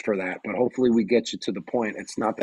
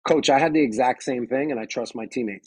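calm confident reply. Shown as a demonstration. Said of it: "agree with them".

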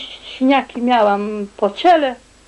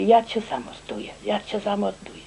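retold, softer muffled death threat; 9 dB quieter than usual. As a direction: imitate the attacker's muffled voice. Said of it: "przytłumionym takim głosem mówi do mnie".

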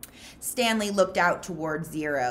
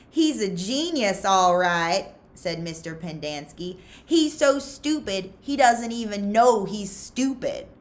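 sneering; 4 semitones higher, 6 dB louder than usual. Acted. Counselor sneers at Zero.

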